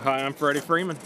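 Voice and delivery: light country accent, barely changed. Shown as a demonstration. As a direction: lean into a Texas country accent. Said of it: "introduce yourself in your best country accent".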